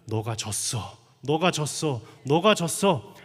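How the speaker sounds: each "너가 졌어" pronounced distinctly, building in force; distinct, deliberate. Retold or imitated. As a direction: repeat "너가 졌어" clearly, from low to loud. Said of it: "또박또박 나한테 들렸는데".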